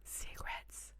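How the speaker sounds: barely voiced, hushed chant of a whisper; playful secretive whisper. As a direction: whisper it furtively, drawing out the secrets. Whispers jokingly about secrets.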